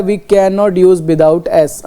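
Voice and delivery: teacher slowly reading the board. Shown as a demonstration. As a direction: read out very slowly. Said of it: "लिखा हुआ है".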